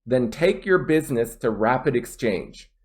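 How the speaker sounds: reduced "your" and "to", firm "take", "business", "Rapid", "Exchange"; flowing read landing on "Exchange"; stress on content words. Shown as a demonstration. Teacher modelling weak function words, content words stressed. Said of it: "I put more stress on content words".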